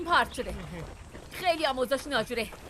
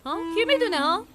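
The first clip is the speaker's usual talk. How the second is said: defiant challenge; 7 semitones higher, 6 dB louder than usual. Acted. Boy defiantly challenges the strangers.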